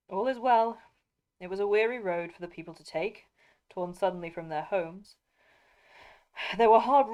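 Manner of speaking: steady read-aloud storytelling; story narration. A narrator's reading. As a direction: read it like a fireside tale.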